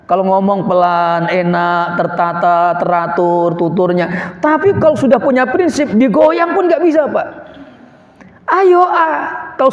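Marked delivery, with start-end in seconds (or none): 0.1-4.4 gentle speech. Shown as a demonstration. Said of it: "dengan lembut pun dia tegas".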